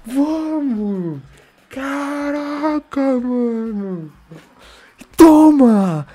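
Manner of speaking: high, triumphant jeers; gloating cheer. Real, not acted. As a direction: rub the win in. Celebrating the win. (comemoração provocativa)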